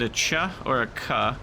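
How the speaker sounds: "ch" and "k" voiced as bare sounds, chuh and kuh; contrasted sounds. Shown as a demonstration. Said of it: "ways you could pronounce that".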